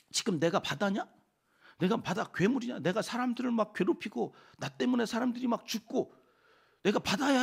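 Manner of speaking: acted-out challenge, not yet shouting; defiant protest. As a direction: protest as the wronged sufferer, voice climbing. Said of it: "하나님한테 이제 막 대드는 거예요".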